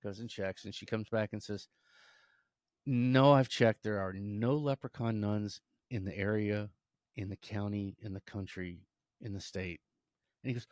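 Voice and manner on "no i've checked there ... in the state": mildly annoyed. Acted. Mother Superior fed up with repeated questions, mildly annoyed. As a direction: spell it out place by place. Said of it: "she's kinda mad".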